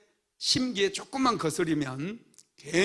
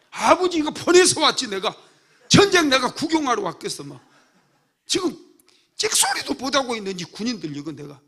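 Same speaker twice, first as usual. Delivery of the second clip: much higher and louder, hotly talking back; 4 semitones higher, 8 dB louder than usual. Retold or imitated. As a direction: snap back at the big brother in protest. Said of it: "대들었을 거예요". (형에게 대드는 화난 말투)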